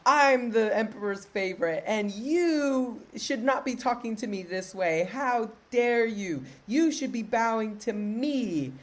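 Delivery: lightly acted outrage from a self-important favorite; haughty scolding. Concubine putting the slapped maid in her place, mock-haughty scolding.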